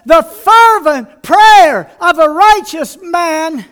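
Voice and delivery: loud, slow preached proclamation; emphatic scripture. Acted. Preacher proclaiming the verse to the church, loud and slow. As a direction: hammer home the verse.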